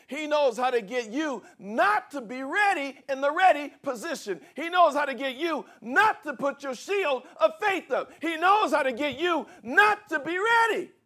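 high, loud, slowed preacher's cry; preaching at full force. Acted. Pastor preaching hard to the congregation, shouting. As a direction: build to a ringing climax.

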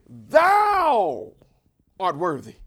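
Thou stretched long, high and loud, then a drop; stress on Thou. Shown as a demonstration. Preacher showing the elders' emphasis, heavy stress on "Thou". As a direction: punch and hold "Thou", let "art worthy" fall away. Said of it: "the word thou is emphatic".

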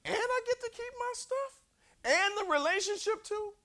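high, smug, having it both ways; mock smug voice. Preacher mocking a half-hearted apologizer, high smug voice. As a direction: sneer like someone who wants it all.

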